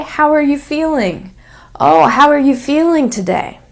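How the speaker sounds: words run together, "are" reduced; "How are you feeling today?" linked smoothly; connected speech. Shown as a demonstration. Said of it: "So I just say".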